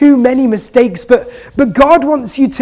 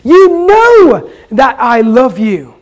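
slow, exasperated insistence; a hint of frustration, slowed down; frustrated and upset; 3 dB louder than usual. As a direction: press each word like he's tired of being asked. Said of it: "Peter is getting frustrated and upset".

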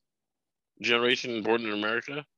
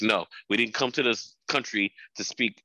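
lightly put-on Filipino parent accent. Parent refusing to speak Tagalog in America, Filipino accent. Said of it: "great accent. Very close".

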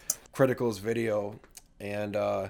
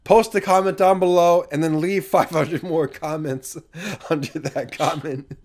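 mock rallying call; 4 semitones higher, 5 dB louder than usual. Rallying viewers to comment.

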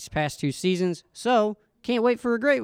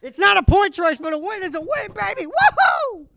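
much higher, overjoyed cheering; excited; 13 semitones higher, 4 dB louder than usual. Real, not acted. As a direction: gush with thrilled delight. Celebrating favourite driver's win.

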